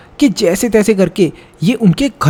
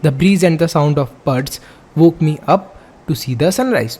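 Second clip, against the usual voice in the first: slow, deliberate textbook reading; measured classroom read-aloud; reading aloud slowly; 2 semitones lower, much slower than usual. Acted. Reads textbook passage aloud.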